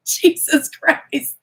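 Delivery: slow, loud, high Jesus Christ; shocked exclamation. Real, not acted. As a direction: blurt it out in disbelief. Shocked reaction to tarot card.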